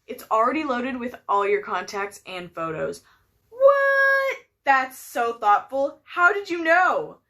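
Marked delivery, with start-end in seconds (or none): 3.5-4.4 high astonished gasp of a word; surprised. Acted. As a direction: act floored by the gift. Surprise at present.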